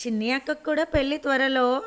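happy teasing. Acted. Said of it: "నవ్వింది శ్రావణి ఆనందంగా".

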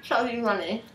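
mushy, cheeks stuffed full; mouth full. Real, not acted. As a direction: force the words past marshmallows. Chubby bunny challenge, marshmallows in.

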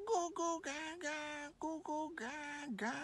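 put-on soft, slow baby babble. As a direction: coo like an infant.

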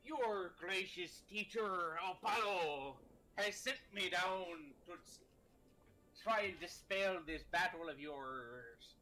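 slow, hammy pirate god; drawn-out booming pirate. Acted. Pirate god addresses the captain.

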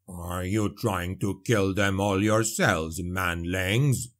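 mocking old dwarf Slayer; a growling dwarf scolding humans; gruff dwarf. A narrator's reading. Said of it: "Gotrek Gurnison said".

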